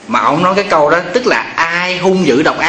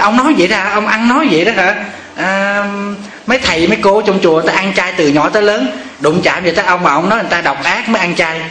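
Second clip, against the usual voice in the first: wife indignant; 5 semitones higher than usual. Retold or imitated. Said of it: "Cổ nói".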